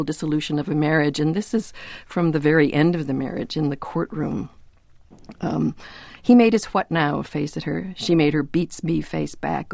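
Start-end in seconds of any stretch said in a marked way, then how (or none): 6.2-9.7 measured, literary reading aloud; story narration. Acted. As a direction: read the passage evenly, with light character touches. Reads a story passage aloud.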